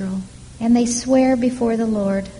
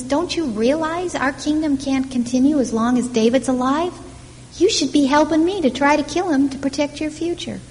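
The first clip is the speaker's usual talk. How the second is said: angry demand; 5 semitones higher than usual. Retold or imitated. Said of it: "Saul vents his anger on Jonathan".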